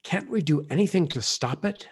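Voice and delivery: a girl's frightened question, lightly voiced; shaken voice. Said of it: "said Jill in a shaken voice".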